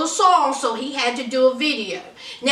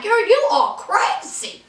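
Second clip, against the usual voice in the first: incredulous friends; 4 semitones higher than usual. Retold or imitated. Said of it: "her two friends are looking at her like".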